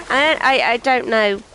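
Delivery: a slipped-in, mild redneck drawl on "I don't know"; redneck accent. Retold or imitated. British gamer slips into a light redneck accent while talking to viewers. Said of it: "it sounded like a redneck".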